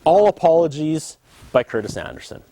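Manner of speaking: a lightly hammed-up self-important host, climbing into shouts; sincere apologies curdling into petty rants; ranting apology host. A host apologizing to the viewers, hammed-up and building to shouts. Pre-taped apology segment, escalating rant.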